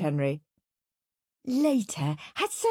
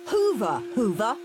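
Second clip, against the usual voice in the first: ordering; 5 semitones higher, 3 dB louder than usual. Acted. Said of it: "ordered Henry".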